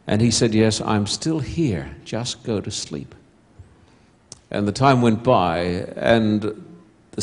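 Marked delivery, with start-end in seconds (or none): 0.5-3.1 slow, soft fatherly reassurance; a father soothing his frightened daughter in the dark, softly. Retold or imitated. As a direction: gently settle a scared child.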